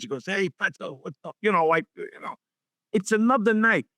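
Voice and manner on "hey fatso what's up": Angelo's voice. Retold or imitated. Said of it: "and with his voice".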